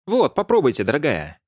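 put-on high, gushing old neighbour; lightly voiced chatty old lady. A narrator's reading. (восторженная старушка)

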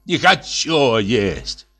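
put-on slow, sulky child-like whine; slow petulant refusal; capricious. A narrator's reading. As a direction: drag it out like a spoiled kid refusing food. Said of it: "капризно сказал Лысый".

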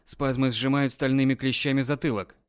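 ordinary delivery, nothing marked

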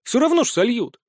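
dry sarcastic dismissal. Acted. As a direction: say it with all the sarcasm you can. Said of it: "вложить в свой тон весь сарказм".

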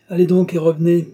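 a father raising his voice to give orders; insistent order. A narrator's reading. Father sends his daughter off to her duties, insistent order.

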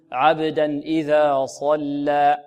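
صلى heavy, lips unrounded, drawn out slowly; correct heavy sad, slow. Shown as a demonstration. Teacher modelling the correct recitation slowly. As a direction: say عبدا إذا صلى slowly, open-lipped. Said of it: "نقول".

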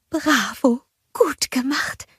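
hushed, whispered praise; whispering. A narrator's reading. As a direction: whisper so the sleeping children don't wake. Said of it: "flüsterte Bulda". (anerkennend geflüstert)

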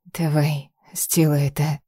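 tearful whisper, barely voiced; whisper sobbing. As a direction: whisper it through tears. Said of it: "прошептала сквозь слёзы".

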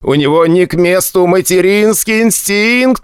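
high, slow, outraged shout; indignant shout. Acted. Tiny Dezik yells about the incubus, outraged high shout. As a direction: yell out the complaint, exasperated.

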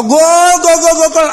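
hammed-up stadium yell of goal; goal shout. Imitates football fan at goal.

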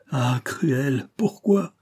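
a lover's anguished cry, rising high; feverish outburst. A narrator's reading. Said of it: "Un mouvement de fièvre le saisit".

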